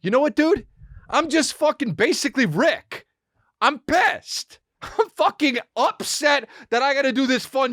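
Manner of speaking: a hint of grumpy Rick; retold reply as Rick. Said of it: "And I said".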